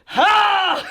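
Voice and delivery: very slow, drawn-out chant rising to a shout; Kamehameha battle cry. Acted. Showing how to make flame clouds, slow building attack cry. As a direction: stretch each syllable, then burst on the last.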